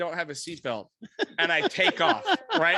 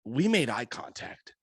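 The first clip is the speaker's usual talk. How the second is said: retold mild annoyance; 3 semitones lower than usual. Cop accusing a driver over a seatbelt, mock exasperation. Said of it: "starting to get pissed".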